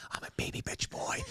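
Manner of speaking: put-on kid's gleeful whispered secret. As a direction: whisper the naughty line like a shared joke. Son whispers the forbidden phrase.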